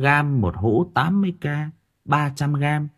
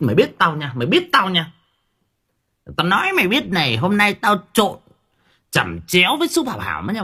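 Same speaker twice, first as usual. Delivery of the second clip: mock threat; 3 semitones higher than usual. Giả giọng dọa nạt, cao giọng.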